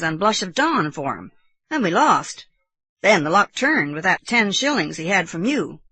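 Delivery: a hint of chatty, respectful servant; lightly voiced deferential servant. Servant explaining betting history to sir, lightly deferential.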